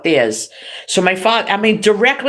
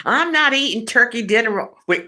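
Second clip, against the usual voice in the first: papa voice; 5 semitones higher than usual. Retold or imitated. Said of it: "I do the papa voice".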